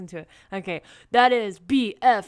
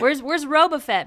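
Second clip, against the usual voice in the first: laughing; 5 semitones higher, 4 dB louder than usual. Real, not acted. Laughing mid-joke.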